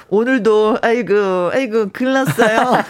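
slow, lightly voiced old man. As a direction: drag it out like a tired old grandpa. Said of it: "할아버지 연기 뭐예요".

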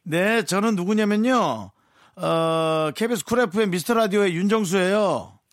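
excited introduction. Real, not acted. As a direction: announce yourself with energy. Introducing self on phone. (들뜬 목소리로)

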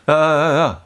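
hammed-up earnest caution to a friend; mock serious. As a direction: play up a solemn word of advice. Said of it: "아주 심각하게".

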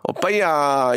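cute Gyeongsang-accented "오빠야" with a drawn-out ending; 경상도 사투리. Shown as a demonstration. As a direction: stretch the "야" in playful Gyeongsang dialect. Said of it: "경상도 출신의". (귀엽게 늘이는 경상도 사투리)

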